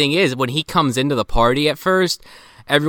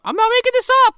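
high, loud protest against being doubted; indignant protest; 5 dB louder, faster than usual. Real, not acted. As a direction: insist hard, almost yelping. Accused of inventing plot details.

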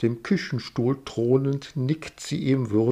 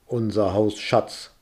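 pressed out. Acted. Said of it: "presst er heraus".

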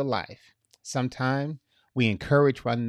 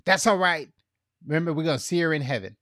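quick brushed-off comfort; 3 semitones higher, much faster than usual. Retold or imitated. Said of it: "you don't always have to say".

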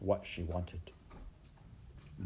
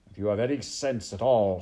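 loud, emphatic warning; stern rat; 7 dB louder than usual. Acted. Rat warning the armed maid, loud and stern. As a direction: warn her with contempt.

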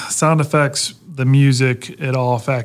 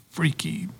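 whispering; 3 dB quieter than usual. Real, not acted. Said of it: "freaky dead little girl voice".

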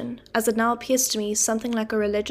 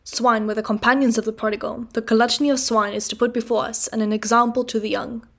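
deep sermon voice. Acted. Mr Wopsle preaching to the boy about swine, deep and solemn. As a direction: intone it like a preacher. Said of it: "in his deepest voice".

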